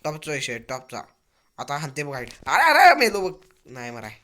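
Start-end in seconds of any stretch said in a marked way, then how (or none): 2.5-3.4 alarmed cry. Real, not acted. Dying in game.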